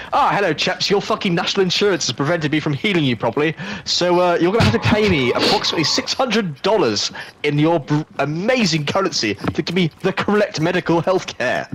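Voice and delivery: lightly put-on British medic, chirpy and polite; a hint of a British accent, cheerfully rude; mock British accent. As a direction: play a smarmy British medic demanding payment. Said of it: "with a British accent".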